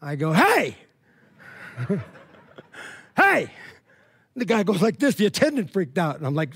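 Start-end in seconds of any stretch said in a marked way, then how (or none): 0.3-0.8 a sudden, raised call of hey; a bright hey aimed at the guy's back; mock friendly call. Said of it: "with my best Christian voice". 3.2-3.5 a sharp, much higher shout of hey; a high, loud hey across the store; loud call. Retold or imitated. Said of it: "with my best Christian voice".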